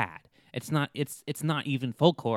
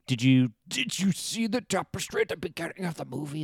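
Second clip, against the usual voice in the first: eager fan voice; 5 semitones higher than usual. Retold or imitated.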